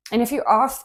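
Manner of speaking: accidental British accent; British-sounding "are" with no R. Real, not acted. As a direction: slip into British, dropping the R in "are". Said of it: "I don't know where that British accent came from".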